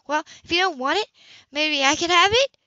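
gentle hopeful request; hopeful ask. A narrator's reading. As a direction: ask hopefully, half-shy. Anna asking gently.

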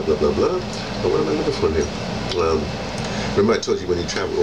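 ordinary talk, nothing marked

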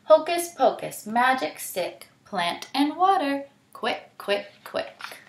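sing-song spell fading to a hiss; Anansi's spell. Acted. Anansi casting his spell on the stick, sing-song fading. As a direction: chant it, then let it dwindle away.

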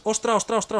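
sudden gamer alarm; startled exclaiming. Real, not acted. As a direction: snap out ostra in a fright. Panicked exclamation in game.

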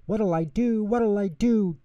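high, fretful little voice; worrying out loud. A narrator's reading. Tutter has no time to clean, high worried fretting. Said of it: "Tutter worried out loud".

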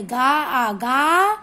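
long, rising गा after its separate sounds; stress on गा. Shown as a demonstration. Teacher shows how the first letters join, stressed गा. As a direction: stretch गा out firmly. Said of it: "जोर से बोलेंगे".

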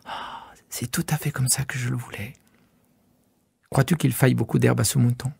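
a delighted near-whisper from the little prince; hushed little prince. Acted. Little prince sees his sheep in the box, hushed delight.

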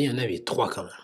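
ordinary talk

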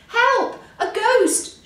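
very high, loud panicked cry; frightened shout. A narrator's reading. Three friends startled awake by Hare, frightened shout. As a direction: yell for help in storybook terror. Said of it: "shouted the three friends".

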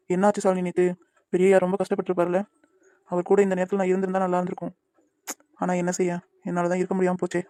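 quietly sorrowful, looking back; sad. Acted. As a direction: son quietly mourns missing his uncle. Son grieves about his father.

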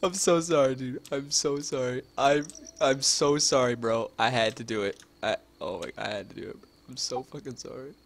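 loud, laughing insincere sorry; mock-remorseful apology to the players he killed; laughing fake apology. Real, not acted. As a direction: apologize while cracking up. Apologizing after killing them.

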